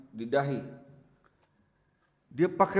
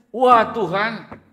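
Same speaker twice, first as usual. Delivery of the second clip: panicked; 6 semitones higher, 5 dB louder than usual. Retold or imitated. Pastor fears being blamed.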